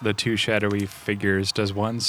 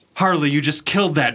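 high-pitched loud shouting; 7 semitones higher, 6 dB louder than usual. Trying to communicate with Harley, the speaker calls out to her, shouting. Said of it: "Just shout to her".

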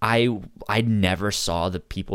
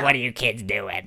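put-on rough, raspy, smoke-worn old voice. Retelling what an old woman who smoked said to kids: imitating a raspy voice. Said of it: "really raspy voice".

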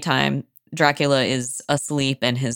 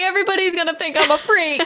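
high, put-on panicky voice, squealed out. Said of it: "He's like".

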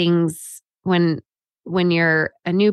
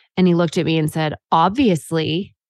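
ordinary talk

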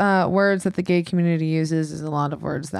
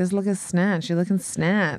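ordinary talk

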